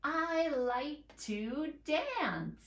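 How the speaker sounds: each word drawn out, slow; careful slow read-aloud. Shown as a demonstration. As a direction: read it back slowly for children. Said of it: "go back and read the whole thing".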